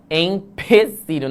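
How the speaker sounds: slow, drawn-out "Empecilho" with clear e- and no r; careful Empecilho. Shown as a demonstration. Teacher correcting spelling, slowly sounds out the word. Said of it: "não é emprecilho".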